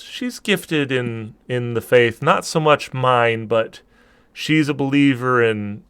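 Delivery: a calm, warm divine voice; gentle goddess. Acted. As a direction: goddess explaining the giants to her follower, gentle.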